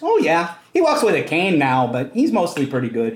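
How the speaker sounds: put-on strong Fargo-style Midwestern accent, swooping. Playing a character being questioned in a role-playing game; put-on Fargo accent. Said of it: "What accent? That's this it's character like turned Viola into. It's like I like it. It turned into Fargo".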